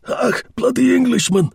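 put-on high, loud yell in a thick German accent. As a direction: bellow it like an enraged German soldier. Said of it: "he yelled with a strong German accent".

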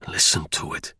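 man urging the woman to hear the river, low and earnest. A narrator's reading. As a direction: hush her and urge her to listen. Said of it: "in a low voice as earnest".

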